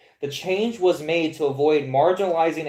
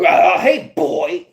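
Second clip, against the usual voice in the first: mock offended; 6 dB louder, much slower than usual. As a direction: play the wounded victim, half whispering. Acting out an offended young man.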